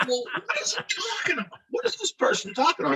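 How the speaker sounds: high-pitched, plaintive mock grumble; squeaky put-on bewilderment; exasperated whine. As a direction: complain like someone woken from a nap. Woken sleeper complains about the yelling.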